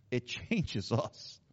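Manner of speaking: drawn out with a chuckle inside; slow laughing repeat. Acted. Pastor repeats his point to the congregation, slow and laughing. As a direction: let a laugh break into it, slowly.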